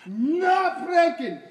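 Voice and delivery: shouted rule. Acted.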